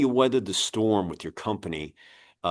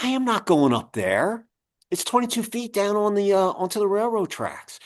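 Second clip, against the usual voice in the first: mock panicky refusal; 11 semitones higher than usual. Refusing the superintendent, voiced.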